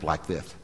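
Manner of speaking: imitating a lisping instructor, softly; slight lisp. Pastor demonstrating the instructor's speech, slight lisp. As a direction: put a little lisp on the S sounds. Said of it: "speaks with a little bit of a lisp".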